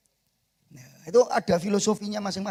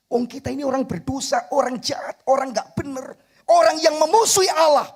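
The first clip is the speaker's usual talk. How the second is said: fiery preaching; 8 semitones higher, 8 dB louder than usual. Acted. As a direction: preach it louder and louder to a cry. Preaching at full force. (khotbah berapi-api, makin keras)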